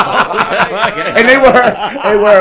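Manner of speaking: high, loud laughter through the words; cracking up at his own story; laughing hard. Real, not acted. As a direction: squeeze the words out between big laughs.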